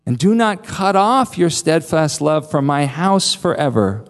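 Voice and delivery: earnest plea, deliberate on each request; lightly acted entreaty, slowing on the repeated appeals; Jonathan. Friend pleading with David for steadfast love, restrained pleading. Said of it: "He will plead with David".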